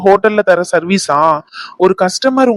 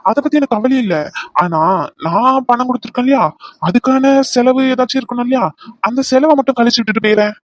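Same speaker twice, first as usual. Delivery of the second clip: higher-pitched, taunting coaxing; mocking sweetness; 4 semitones higher than usual. Man demanding repayment from pleading woman, mocking sweetness. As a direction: toy with her while making your demand.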